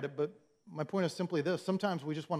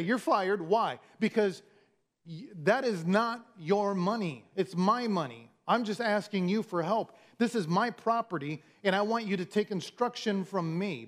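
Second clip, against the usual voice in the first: stern boss; 3 semitones higher than usual. Acted. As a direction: fire him and tell him whose money it is. Owner voiced firing the steward.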